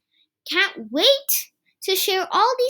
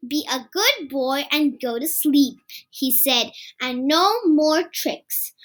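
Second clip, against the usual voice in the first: gentle parent; 2 semitones lower than usual. Acted. Dad tucking Kipper in.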